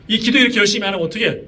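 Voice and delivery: quick mock nagging; retold scolding. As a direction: imitate a wife nagging her husband. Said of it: "그래서 막 혼내는 거예요".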